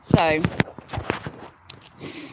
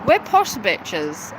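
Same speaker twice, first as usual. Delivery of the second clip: mock posh brag; much slower than usual.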